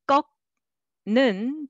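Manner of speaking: 꺾는 split into two clear syllables; staccato; separate syllables. Shown as a demonstration. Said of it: "but together".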